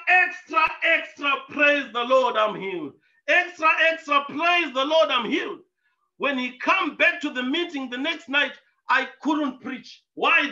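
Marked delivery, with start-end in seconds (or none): 0.1-5.6 street hawker holler. Retold or imitated. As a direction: call it out like selling papers on the corner. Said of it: "He would holler".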